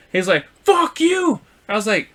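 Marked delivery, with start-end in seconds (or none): 0.6-1.4 very high mock outburst; retold angry yell. Parked driver cursing at the teller, retold high and angry. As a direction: imitate a defensive driver exploding.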